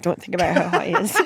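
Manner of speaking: the warning to herself half-laughed; laughing. Retold or imitated. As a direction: giggle through a self-warning. Laughing at her own thought.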